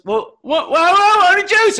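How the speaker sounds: put-on high, loud squeaky kid voice, laughing; flustered child. Daughter panicking about losing her juice, squeaky and high. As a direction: sputter like a startled little girl. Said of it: "And she goes".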